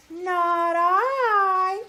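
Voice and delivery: high, loud cat whine; whiny cat. Acted. Cat refuses to help the little red hen, whiny. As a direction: whine it out like a meow. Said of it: "said the cat".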